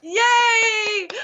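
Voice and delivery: high delighted shout; excited cheer. Real, not acted. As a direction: cheer it out, thrilled. Guest cheering at her introduction.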